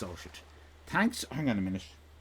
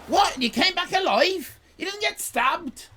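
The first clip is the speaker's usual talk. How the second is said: high, loud and appalled; can't believe they survived; horrified disbelief; 8 dB louder than usual. Retold or imitated. Local hearing they went to Grange, appalled. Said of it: "And we went".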